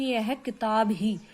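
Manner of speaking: यह किताब ही said slowly and stressed; slow down and lean on किताब ही; stress on KITAB HI. Shown as a demonstration. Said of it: "इस किताब को मुख्य बताया गया". (धीरे, किताब ही पर ज़ोर)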